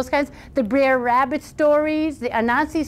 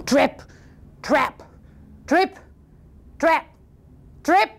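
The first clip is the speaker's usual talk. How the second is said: heavy, widely spaced trip-trap; lightly voiced thudding hoofsteps; thunderous footsteps; slower than usual. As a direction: stomp each word out, one by one. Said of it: "it sounded like thunder".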